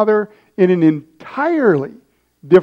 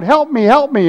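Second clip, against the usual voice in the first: higher-pitched pretend cry for help; mock yell for help; 6 semitones higher than usual. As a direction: call out as a child pretending to be hurt. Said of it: "yelling out".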